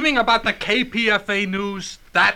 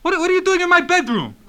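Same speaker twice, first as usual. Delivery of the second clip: shouting; 7 semitones higher, 5 dB louder, faster than usual. Acted. Intruder in bedroom, yelling.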